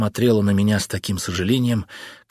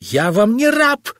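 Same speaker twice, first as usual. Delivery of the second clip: shrieking; 10 semitones higher, 5 dB louder than usual. Acted. Husband shrieking at his wife in protest. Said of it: "взвизгнул я".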